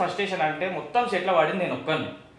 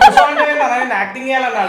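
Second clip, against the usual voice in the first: loud, laughing through the quote; laughing retelling; 7 semitones higher, 9 dB louder than usual. Retold or imitated. Retelling how the director told him to sit, laughing loudly. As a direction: spill the words out between laughs.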